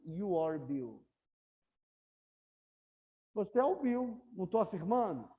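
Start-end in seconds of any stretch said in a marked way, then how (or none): 0.0-1.1 slow, deliberate statement; slow model sentence. Shown as a demonstration. Teacher repeats the statement slowly for students to copy. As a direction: spell it out slowly for the class. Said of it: "O que que eu tô falando aqui?".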